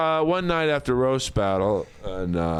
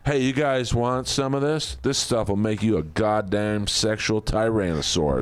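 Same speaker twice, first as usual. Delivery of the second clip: Jesse Ventura impression; 2 semitones lower than usual. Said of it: "That's the Jesse Ventura one".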